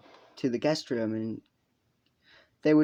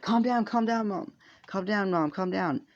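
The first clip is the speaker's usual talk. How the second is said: pleading sons; 6 semitones higher than usual. Retold or imitated. Ranboo and Sam calming their mom, high pleading voice. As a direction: imitate anxious kids soothing their mom, pitched way up. Sons restrain angry mother again.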